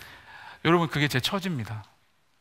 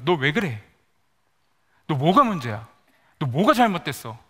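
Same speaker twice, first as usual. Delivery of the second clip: harsh self-accusation; 3 dB louder than usual. Acted. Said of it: "저에게 이렇게 질문했습니다".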